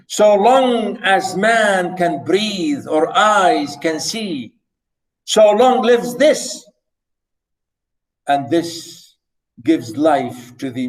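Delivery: slow, weighty reading of the sonnet line; teacher reciting Shakespeare to students, slow and solemn; slow poetry recitation. Shown as a demonstration.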